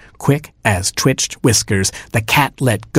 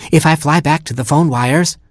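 higher, eager little bird voice; lightly raised superhero bird; young robin hero; 6 semitones higher than usual. Acted. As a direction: play the plucky robin hero. Robin Hood speaks, high voice.

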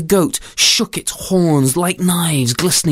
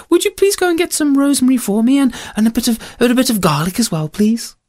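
higher-pitched storybook mother; kindly requesting mother; 9 semitones higher, faster than usual. Acted. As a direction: ask as a mother sending her child on an errand.

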